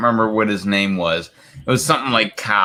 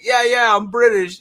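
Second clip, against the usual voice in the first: quoting Aldous; 13 semitones higher than usual. Retold or imitated. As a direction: blurt it out proudly. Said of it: "And he's like".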